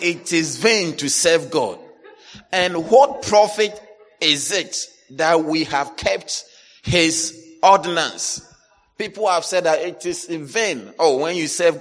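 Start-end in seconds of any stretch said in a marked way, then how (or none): 0.0-8.4 a touch of mock grievance, slow; louder, drawn-out complaint; complainers' voice. Voicing the complainers' words.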